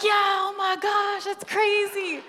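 loud, high excited gush; amazed. Retold or imitated. Friends react to the healing, loud excited wonder.

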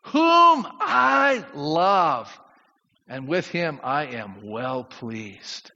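slow, drawn-out voice of God the Father; voice from heaven. Acted. Pastor voicing God speaking over Jesus at baptism, slow and solemn. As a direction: intone it slowly as God from heaven. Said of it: "a voice from heaven says".

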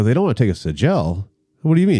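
quick questioning echo, climbing at the end; retold disbelief, asking for an explanation; incredulous echo. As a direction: throw the news back as a question. Echoes friend's news as alarmed question.

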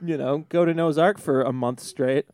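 giddy bad-influence uncle, laughing; fun uncle. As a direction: hype the kid up like the reckless uncle. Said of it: "The other uncle's like".

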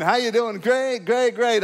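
put-on happy reply; mock happy. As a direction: act out an upbeat 'great' that covers hurt. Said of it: "you're saying you're happy".

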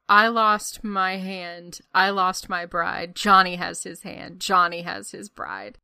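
mock operatic lament. Ronnie pours out his tragedy to Loretta, mock operatic lament. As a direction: wail each loss like an opera aria. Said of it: "screaming his life tragedy".

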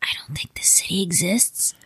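whispering. Acted. Whispering aside to partner.

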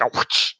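breathy imitated punch whoosh; whoosh sound. Shown as a demonstration. Describing a movie punch effect, soft whoosh. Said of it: "I can't really do it".

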